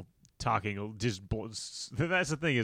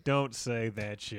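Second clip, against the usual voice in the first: slow, serious warning; slower than usual. Retold or imitated. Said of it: "Said very serious".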